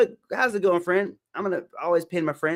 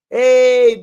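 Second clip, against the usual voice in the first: loud greeting; 4 semitones higher, 12 dB louder than usual. Real, not acted. Greeting new viewer loudly.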